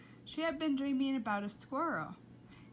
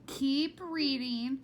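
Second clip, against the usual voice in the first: slow, firm command; stern order; 4 semitones higher, 5 dB louder, much slower than usual. Acted. Mother ordering Flora to keep reading, stern. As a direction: lay down the order.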